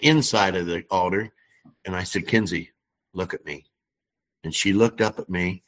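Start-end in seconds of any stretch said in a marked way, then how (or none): 2.3-3.7 low, softened retold words to a child; gentle reassurance. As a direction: quietly draw her attention, pitched low. Retelling comforting a crying girl.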